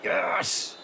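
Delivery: high victorious yelp; excited cheer. Real, not acted. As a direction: cheer the win. Celebrating the win.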